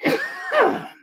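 high, harsh cough; choking cough. Real, not acted. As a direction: hack up food gone down wrong. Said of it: "I swallowed my hot dog wrong".

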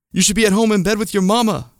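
high, loud angry shout; dad shouting at a fleeing teen. A narrator's reading. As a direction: bellow it after him. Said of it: "my dad shouted".

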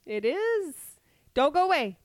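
high, loud plea; playful pleading. Real, not acted. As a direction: beg them not to leave. Pleading listeners to stay.

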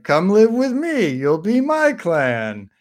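a wobbly attempt at Irish; attempted Irish accent. Talon inviting the clones to join him, wandering mock Irish accent. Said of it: "go through so many accents".

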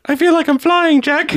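put-on very high, swooning girl parody; mock movie heroine. Joking as Titanic heroine on the boat, high mock swoon. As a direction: squeal it in fake rapture. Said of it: "at that moment I went".

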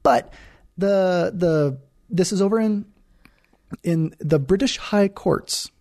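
mock-official, slow announcement of a court; official accent. Host introducing the court ruling, in a slow official accent. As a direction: draw it out with put-on officialdom. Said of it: "I like that British accent there".

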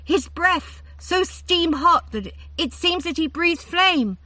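drip honey on every word; honey-coated. A narrator's reading. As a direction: Findevar gazing dreamily at the third chariot. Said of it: "her voice grew honey-coated".

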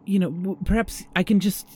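high, breathless wooing; lovestruck host. Acted. Host woos guest.

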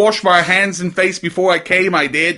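lightly voiced British quote; British accent. Co-host playfully mimicking an accent. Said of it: "our total Carrie Fisher, Princess Leia".

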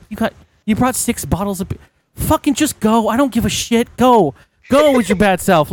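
acted, incredulous "get out of here"; exasperated dismissal. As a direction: wave them off in disbelief. Agent's exasperated dismissal, retold.

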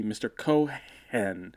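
Cohen said as co-HEN, second syllable stressed; kids' mispronunciation. Retold or imitated. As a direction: break Cohen in two, landing on HEN. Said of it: "the kids w-, called me".

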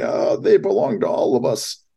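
a lightly voiced, not very good Biden; barely changed mock Biden, close to own voice; Joe Biden impression. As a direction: toss it off as a halfhearted Biden. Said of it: "That was not a very good Joe Biden impression".

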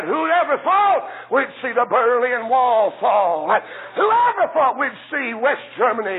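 slowed, shouted exclamation; preaching shout. Real, not acted. Preacher to his congregation, shouting in amazement. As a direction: cry it out in wonder.

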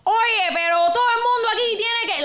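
fast, high Cuban Spanish impression; Cuban accent. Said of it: "I was doing a Cuban accent".

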